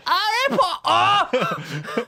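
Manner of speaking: high, loud squeaky voice; squeaky character voice. Pretend. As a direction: squeak it out like a cartoon. Harry Potter voice bit.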